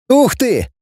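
schoolboy thrilled by the news, excited; delighted. Acted. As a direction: burst out with boyish delight. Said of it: "обрадовался Кутнов".

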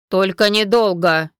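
stern. A narrator's reading. Dark lord warning the cousins, stern. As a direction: lay down the rule firmly. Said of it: "строго наставил".

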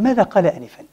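sneering hypocrites fading to a whisper; mock the Prophet under your breath; scornful mockery. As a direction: hypocrites mocking, dropping to a hush. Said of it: "قالوا للذين أوتوا العلم".

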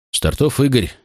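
a lightly voiced pained rasp; hoarse rasp. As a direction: rasp the name out through pain. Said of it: "прохрипел отец сквозь боль".

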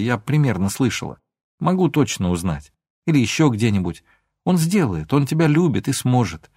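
plain reading voice

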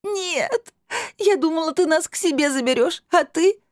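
high, crying plea breaking up; girl crying to her stepmother about being left behind; sobbing. A narrator's reading. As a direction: sob it out, betrayed and hurt. Girl sobs out her disappointment.

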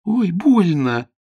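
high, loud yelp of pain; crying out in pain. Acted. Girl hurt again.

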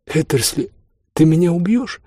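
high, lightly voiced, mirthful question; amused friend. A narrator's reading. Host laughs at his raging friend, high and amused. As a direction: lift the pitch as if weak from mirth. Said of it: "утирая слёзы смеха".

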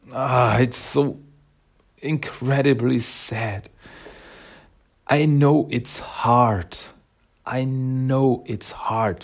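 slow, drawn-out words of real sorrow; heartbroken. Real, not acted. Host reacting to parents rejecting Mona, heartbroken. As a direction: dwell on each word, pained and sympathetic. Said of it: "it breaks my heart".

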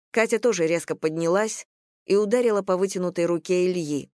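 ordinary delivery

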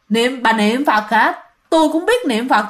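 slow, stretched-out mocking echo; creepy teasing ghost. Vendor imitating the ghost that mocked her praying, slow creepy tease. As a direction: draw it out as an eerie taunt. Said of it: "nụ cười giống như là trêu ghẹo".

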